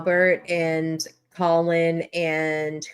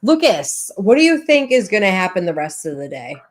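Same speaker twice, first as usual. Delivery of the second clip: calling out; 3 semitones higher, 6 dB louder than usual. Real, not acted. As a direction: call out to get his attention. Calling to a silent co-host.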